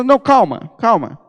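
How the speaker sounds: calm tone. Shown as a demonstration. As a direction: soothe instead of shouting. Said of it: "não é com grito".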